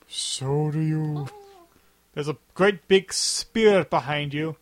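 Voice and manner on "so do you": slow deadpan retort. Acted. Movie quote retort.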